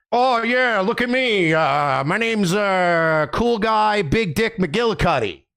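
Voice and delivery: hammed-up douchey showman; mock cool guy. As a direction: sneer it like a self-impressed dude. Mocking a cool-guy stage persona.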